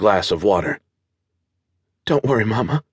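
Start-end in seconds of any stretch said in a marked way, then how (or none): 2.1-2.8 tearful. Acted. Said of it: "Veronica sniffed".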